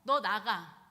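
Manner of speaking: harsh order. Retold or imitated. Amnon throws Tamar out.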